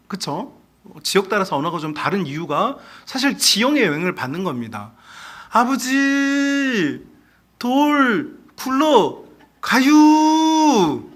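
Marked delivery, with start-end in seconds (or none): 5.5-11.1 very slow, higher Chungcheong dialect; lazy Chungcheong country drawl. Shown as a demonstration. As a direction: stretch every syllable like a Chungcheong farmer. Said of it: "왜 그렇게 천천히 말할까요?".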